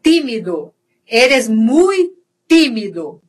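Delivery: "tímido" starting tee, with no tch; pure T sound. Shown as a demonstration. Teacher gives Spanish example, hard T in "tímido". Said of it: "eu vou falar o T I".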